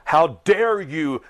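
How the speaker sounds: high indignant mock voice, slowed; lightly voiced outraged rival; a hint of a pompous accuser; mocking quote of Everett. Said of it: "he's like".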